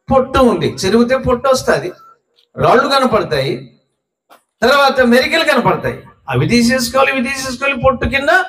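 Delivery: high-pitched, driving sermon delivery; impassioned preaching. Acted. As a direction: preach it urgently, pitched well up. (ఉద్వేగంగా, హెచ్చు స్వరంలో ప్రసంగం)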